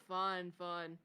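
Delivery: ordinary delivery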